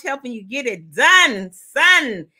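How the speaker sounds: playful New York flourish; New York accent. Pretend. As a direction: land it with New York swagger. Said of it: "That's my New York".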